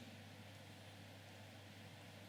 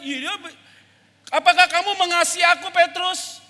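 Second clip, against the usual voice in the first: Jesus asking Peter; 9 dB louder than usual. Acted. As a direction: ask it from the heart.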